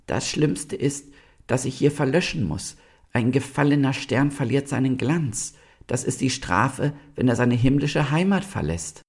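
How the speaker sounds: high-pitched, sorrowful little star; sad star. A narrator's reading. Star answers the animals trying to comfort it, mournful.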